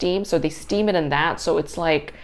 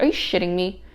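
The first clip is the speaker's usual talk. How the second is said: outraged rant; 3 semitones higher, 4 dB louder than usual. Retold or imitated. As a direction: rant at the price like you're being robbed. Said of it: "I was like".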